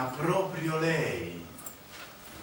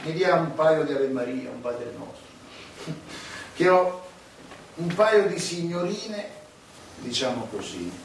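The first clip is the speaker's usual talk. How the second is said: sneering farewell; 3 semitones higher, 4 dB louder, slower than usual. Acted. Cleric leaves the priest, loud sneering farewell. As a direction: taunt him as you leave. Mocking farewell, confession request.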